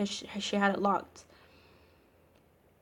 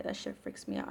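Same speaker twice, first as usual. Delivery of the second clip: whispered, genuinely creeped out, much softer; spooked hush; 9 dB quieter than usual. Real, not acted. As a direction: breathe it out as if the story still scares you. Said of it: "I freaked myself out right now".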